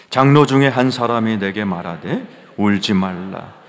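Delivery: loud, declamatory Bible reading; scripture reading aloud. Acted. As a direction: lead a congregation reading with force. (큰 소리로 성경 낭독)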